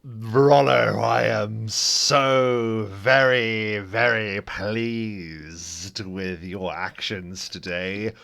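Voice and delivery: slow, deliberate and softening; a father's measured praise, dropping to a whisper; slow proud father. Acted. Father praising son in character.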